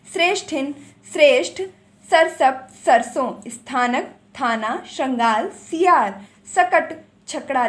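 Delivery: सकट, छकड़ा as a bare word pair, briskly; brisk drill of सकट then छकड़ा; quick revision reading. Shown as a demonstration. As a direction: read सकट, छकड़ा straight off, no linking words. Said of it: "मैं इनको सिर्फ fast पढ़ती हूँ".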